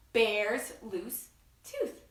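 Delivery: slow, stretched; slow title with signs. Shown as a demonstration. Showing the children the sign, said slowly. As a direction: say it slowly while signing. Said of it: "Can you do that?".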